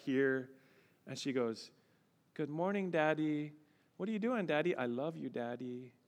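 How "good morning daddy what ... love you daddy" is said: put-on sweet child's greeting, softening at the end; a hint of a cuddly four-year-old; lightly voiced little daughter. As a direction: gently imitate a small child snuggling up. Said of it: "Down comes our four-year-old daughter".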